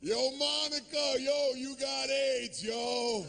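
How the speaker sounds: high, drawn-out yell across the subway tracks. Retold or imitated. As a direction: call her name across the platform at full voice. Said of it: "This guy screams across the tracks".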